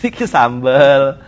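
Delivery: mimicking a gentle way of speaking, slowed. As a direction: say it slowly, careful and calm. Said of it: "pelan-pelan ngomongnya ya".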